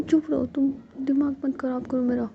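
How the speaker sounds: high, loud tearful snapping; crying while scolding. Acted. Ruhi, crying, tells Jiya to shut up, tearful and loud. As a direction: scold her through sobs. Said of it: "तुम तो दिखा रही हो यार कैसे रो रही हो".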